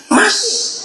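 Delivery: put-on a very high, small child's voice; child's reply. Child admitting to the pastor, in a small high voice. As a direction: answer like the shy child.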